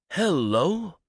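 high, excited hello to a dog; loud, breathy hello. Retold or imitated. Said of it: "in a loud, breathy voice".

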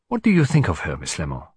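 lightly voiced accented detective; Hercule Poirot. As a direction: prompt your secretary for an opinion. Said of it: "said Poirot".

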